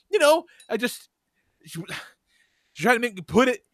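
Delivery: a sulky son griping about class; whiny kid. Retold or imitated. Son griping to his dad about pencils. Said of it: "And he's like".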